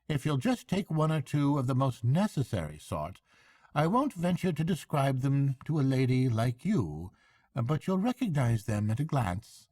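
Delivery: high, hearty barge woman; bright country woman chatting. A narrator's reading. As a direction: barge woman offering a lift.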